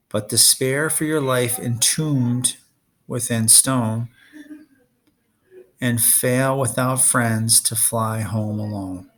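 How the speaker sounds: slow, solemn recitation; recited prophecy. Acted. Clarice reciting her prophecy to Percy, slow and solemn. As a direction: intone it like an oracle. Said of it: "recited her prophecy".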